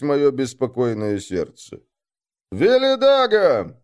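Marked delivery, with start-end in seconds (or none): 2.5-3.7 громкий протяжный зов по имени; выкрикнуть имя в закрытую дверь, медленно; крик. A narrator's reading. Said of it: "крикнул я". (рассказчик кричит Велидагу, барабаня в дверь)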